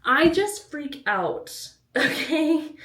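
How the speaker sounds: laughing at her own worry. Real, not acted. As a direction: laugh it out, sheepish. Laughing at herself.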